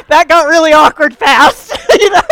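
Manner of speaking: loud high laughter through the words; laughing. Real, not acted. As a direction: laugh at the awkwardness. Awkward moment recalled.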